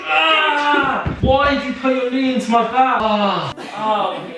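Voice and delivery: loud, high pained complaint; pained yelp. Real, not acted. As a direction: yelp at the knee in your back. Knee pressed into her back.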